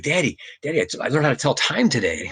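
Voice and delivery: put-on child's excited voice. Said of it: "she was like".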